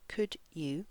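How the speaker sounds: "Could you" as two separate, full words; full careful form. Shown as a demonstration. Teacher isolates the words for learners, "Could you" said carefully. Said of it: "listen for how I say this".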